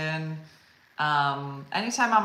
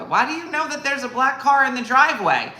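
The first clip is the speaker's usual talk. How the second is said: higher, louder baffled pushback; 8 semitones higher, 8 dB louder than usual. Retold or imitated. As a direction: sound totally thrown by her. Teller baffled, pushing back.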